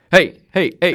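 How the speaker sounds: high, loud imitated hail; Russ. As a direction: mimic a friend calling out on arrival. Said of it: "you just hear this familiar voice".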